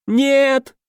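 very high, thin screech; terrified no. A narrator's reading. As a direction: shriek in terror. Лохр в ужасе отказывается. (очень высокий испуганный визг)

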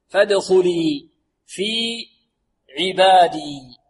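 slow, spaced-out verse recitation; measured tajweed chant; model recitation. Shown as a demonstration. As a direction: recite phrase by phrase for students. Teacher recites verse slowly for repetition.

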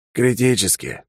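muffled voice from under a mask; through a face mask. Acted. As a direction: speak as if behind a rubber gas mask. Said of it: "глухо донеслось из-под маски".

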